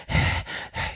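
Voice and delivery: hard breath out through the mouth; panting from a stuffy nose; heavy panting breath. Real, not acted. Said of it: "you hear me panting real hard".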